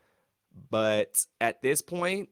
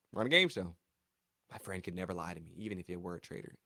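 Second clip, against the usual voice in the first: mock naive friend; 4 semitones lower, 6 dB quieter, faster than usual. Voicing Sheree's naive thought.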